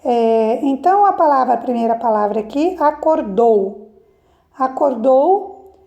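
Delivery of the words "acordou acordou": "acordou" said slowly, weight on final "dou"; stress on last syllable. Shown as a demonstration. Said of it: "a sílaba tônica está na última sílaba".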